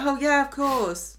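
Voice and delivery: slow, drawn-out mock agreement; dragged-out, half-hearted yes; unenthusiastic agreement. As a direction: say yes without really meaning it. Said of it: "he's not really enthusiastic".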